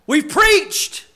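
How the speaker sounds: lightly voiced folksy Nehemiah, easygoing; a Nehemiah who talks like a laid-back Southern preacher; preacher playfully imagining Nehemiah telling the crowd to move on; casual Nehemiah. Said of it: "If I was Nehemiah, the way I talk".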